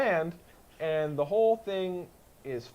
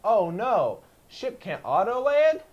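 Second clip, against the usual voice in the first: mock cocky pilot; 3 semitones higher, 6 dB louder, slower than usual. Acts out the pilot's reaction.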